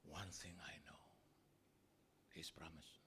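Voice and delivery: soft, unvoiced confession; whisper. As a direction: breathe it like a treasured secret. Thief's hushed confession of faith. (berbisik penuh keyakinan)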